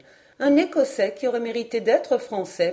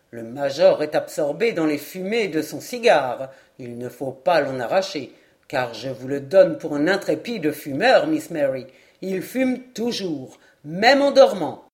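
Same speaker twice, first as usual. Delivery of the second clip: lightly voiced amused lord, mostly lower; gently tease, building to a louder punchline; teasing lord; 3 semitones lower, 4 dB louder than usual. Narrator voices Lord Glenarvan. (lord moqueur, voix un peu grave)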